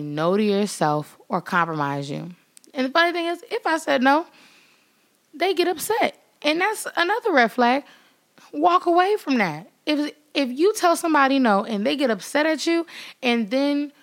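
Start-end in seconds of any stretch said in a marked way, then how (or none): 2.7-12.0 fired-up warning. Real, not acted. Animated warning about red flags.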